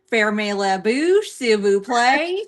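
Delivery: slow French with a Southern drawl; Southern accent. Retold or imitated. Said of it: "speaking French with a Southern accent".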